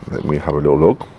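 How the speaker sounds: talking around a pipe stem; words mumbled past a pipe; pipe in mouth. Real, not acted. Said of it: "Trying to light my pipe at the same time".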